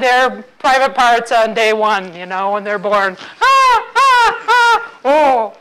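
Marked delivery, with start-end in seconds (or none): 3.4-5.5 high helpless laughing cry. Real, not acted. Speaker losing it over her own joke, high laughing squeal. Cracking up mid-story.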